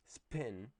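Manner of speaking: "spin" with an exaggerated puff of air on the p; exaggerated aspiration. Shown as a demonstration. Teacher exaggerating aspiration in spin for students. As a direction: push a burst of breath after the p in "spin". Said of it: "I'm exaggerating a little bit".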